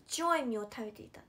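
白い said as "chioi", the r dropped; cute mispronunciation. Retold or imitated. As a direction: imitate cute childlike articulation on 白い. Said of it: "可愛くない？白い実がさ".

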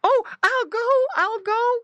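high, loud frantic promise; high-pitched piglet cry. A narrator's reading. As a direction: give in as a squeaky little pig. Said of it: "cried Squinty".

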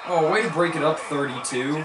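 loud, high burst of praise; real excitement at the play; excited cheer. Real, not acted. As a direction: cheer the defender on for the breakup. Defense breaks up a pass.

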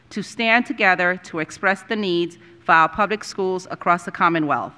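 formal read-out with pauses between clauses; formal resolution reading. Acted. Board member moving a resolution on teacher pay, formal read-out. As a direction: read a proclamation aloud, measured and deliberate.

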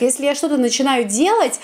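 normal talking voice

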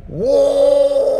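high loud whoa yell. Shown as a demonstration. Showing the French oh put onto a yell, high loud whoa. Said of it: "You put it onto a yell".

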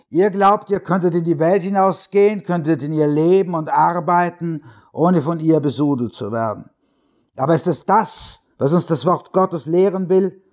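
high, rising pulpit voice; fiery radio preacher. A narrator's reading. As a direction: preach at the flock, building in fervour. Radio preacher sermon to congregation.

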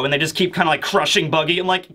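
normal talking voice

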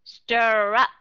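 "Stir up" drawn out, with a clear, strong "up"; both syllables full. Shown as a demonstration. Teacher showing how not to say it, over-articulated. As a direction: overdo "up" in "Stir up" as a full short U. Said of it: "chứ Hà Cát không đọc là stir up".

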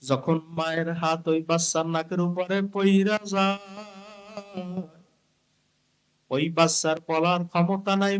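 chanted storytelling with held line endings; sing-song preaching. Acted. Preacher telling of mother and baby, sing-song chant. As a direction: intone each phrase and stretch its last word.

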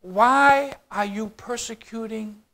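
understated, drawn-out divine question; hushed questioning. Acted. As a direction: ask it slowly and softly, letting it die away. Heavenly voice questions Saul, softly.

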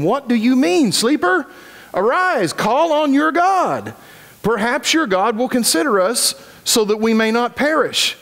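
high, urgent voice of the ship's captain; captain's urgent call. Acted. Captain waking Jonah in the storm, high and alarmed. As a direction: shake the sleeper awake, alarmed.

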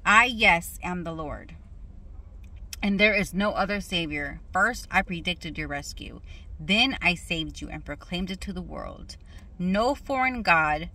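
measured, emphatic reading of scripture. Real, not acted. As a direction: read the verse out deliberately, phrase by phrase. Reads scripture again.

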